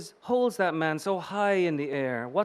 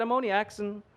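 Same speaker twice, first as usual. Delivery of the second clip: higher, sassy brush-off; Bronx hooker; 4 semitones higher than usual. Acted. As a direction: tease him like a streetwise hooker. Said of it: "in the voice of a thirty-eight-year-old hooker".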